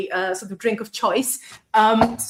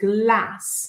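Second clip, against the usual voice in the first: "glass" pronounced with a northern English accent. Comparing accents, the speaker demonstrates how people up north in the UK say glass. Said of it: "If you go up north in the U K, they might actually say glass".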